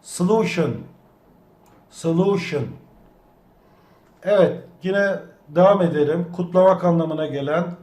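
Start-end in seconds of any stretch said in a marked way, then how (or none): 0.0-2.6 "Solution" with the weight on "-lu-"; so-LU-tion, lean on the middle syllable; stress on the second to last syllable. Shown as a demonstration. Teacher modelling for the class, stress on the second to last syllable. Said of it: "Son heceden bir önceki hecede".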